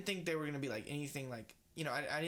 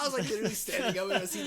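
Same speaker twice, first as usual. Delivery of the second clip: fast, higher, louder rush of words; excited shouting; 5 semitones higher, 7 dB louder, much faster than usual. Real, not acted. Telling his friend about the movie, fast and much louder. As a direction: tumble it out, still hyped. Reliving the hype.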